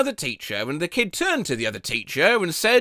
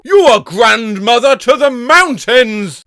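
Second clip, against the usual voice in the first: put-on child's voice; 5 semitones higher, 8 dB louder than usual.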